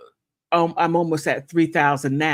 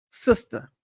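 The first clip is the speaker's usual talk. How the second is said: whispered sister. Shown as a demonstration. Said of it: "more of a closeness".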